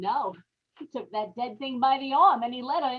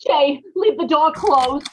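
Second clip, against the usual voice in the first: slow, loud desperate command; urgent plea; 3 semitones higher, 6 dB louder than usual. Acted. Wife warning her husband at the door, slow loud fear. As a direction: hold him back with fear.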